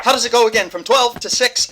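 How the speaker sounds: high, loud frantic question; hurried shout. Acted. Ally working the clock mid-scuffle, frantic. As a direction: call out over the commotion.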